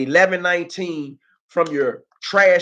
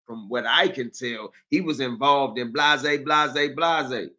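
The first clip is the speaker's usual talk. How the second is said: imitating his talk; 2 semitones lower, slower than usual. Mocking how he talks when he recounts. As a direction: drag the phrase out flatly. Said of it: "that's how he talk".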